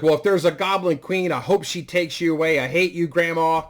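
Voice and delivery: bratty grandson. Acted. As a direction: toss it off like a rude little kid. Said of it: "And he's like".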